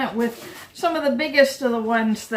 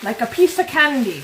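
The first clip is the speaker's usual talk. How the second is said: a hint of a hammed-up Italian accent, mildly louder; mock Italian accent; 3 semitones higher, 4 dB louder than usual. Quoting an Italian nonna's storage trick, in a light mock Italian accent. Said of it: "That's a terrible Italian accent".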